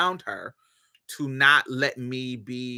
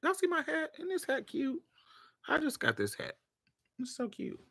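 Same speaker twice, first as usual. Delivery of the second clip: playful show-off; 11 dB quieter than usual. Real, not acted. Shows viewers her new hat.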